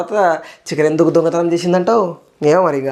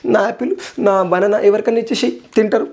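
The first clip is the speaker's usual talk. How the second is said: mock sad; 5 semitones higher than usual. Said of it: "ఇక బాధ హృదయంతోని".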